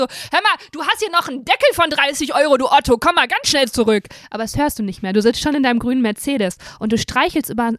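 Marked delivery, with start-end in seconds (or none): 0.0-4.0 retold yell. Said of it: "schreit die Frau dir hinterher".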